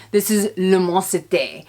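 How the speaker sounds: playful attempt at a French accent; butchered French accent on the cologne name; put-on French accent. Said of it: "said it with that accent".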